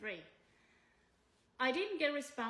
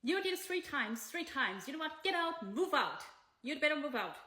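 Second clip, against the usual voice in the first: retold angry shout, louder and higher in bursts; imitated shouting; 3 semitones higher, 5 dB louder than usual. Host orders the tenant out of her house, imitated shout. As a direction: imitate her yelling to get out. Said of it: "and shouted again".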